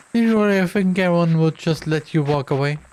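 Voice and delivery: mocking taunt. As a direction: tease him before the verdict. Host taunting the victim.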